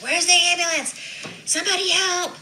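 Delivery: high, loud desperate cry; calling for help. Retold or imitated. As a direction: yell out for the ambulance.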